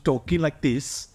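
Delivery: attempted lilting Welsh accent. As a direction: have a loose go at Welsh. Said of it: "I quite like the Welsh".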